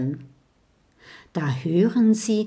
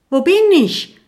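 high, loud, lost cry; calling out; 10 semitones higher, 9 dB louder than usual. A narrator's reading. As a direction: call out, searching for his head. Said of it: "ruft er". (hoher, lauter, verlorener Ruf)

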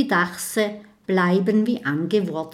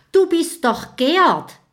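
higher, louder exclamation; sudden recognition; 10 semitones higher, 7 dB louder than usual. Acted. Little dragon excitedly recognizing the ghost. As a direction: blurt it out as it dawns on you.

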